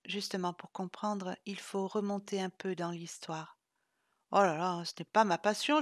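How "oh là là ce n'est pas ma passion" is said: plainte lasse, plus forte; râler en soupirant; gémissant. Acted. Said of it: "gémit Chloé en soupirant". (Chloé gémit, lassée de l'histoire)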